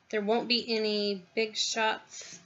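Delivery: talking while chewing lunch; slow words round a mouthful of food; mouth full. Real, not acted. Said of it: "Sorry, that's my lunch".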